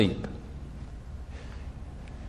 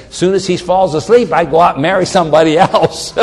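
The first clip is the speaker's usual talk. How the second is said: mock foolish reader; 3 semitones higher, faster than usual. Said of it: "if you're stupid and you just look at that as".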